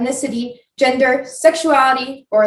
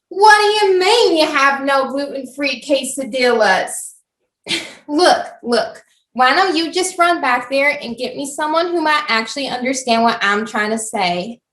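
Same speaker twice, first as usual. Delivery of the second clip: Karen voice. Acted. Karen berating restaurant worker.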